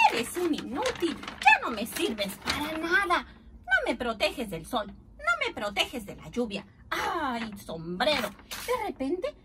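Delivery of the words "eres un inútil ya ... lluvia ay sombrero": storybook scolding, mildly raised voice; mock yelling with exasperation; exasperated scolding. Uncle scolds his useless old hat, mildly exasperated yell. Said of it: "comenzó a gritarle a su sombrero viejo".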